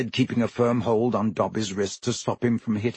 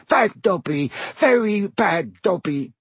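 high, slowed elf mutter; 7 semitones higher, slower than usual. Acted. Dazed elf scolding himself, high mutter. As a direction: scold yourself under your breath.

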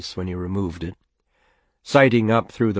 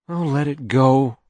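higher, louder, fed-up wife; resentful mother; 6 semitones higher, 5 dB louder than usual. Acted. Mother giving up the argument, exasperated. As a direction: give up with exasperation.

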